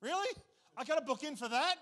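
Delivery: high, loud panicky disbelief; hammed-up alarmed Really; mock freaking out. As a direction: play a worried Gentile in comic alarm. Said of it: "They're all freaking out going".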